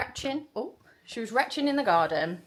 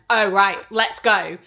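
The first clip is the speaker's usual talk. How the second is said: sudden urgency; 11 dB louder than usual. Retold or imitated. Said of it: "And then he went".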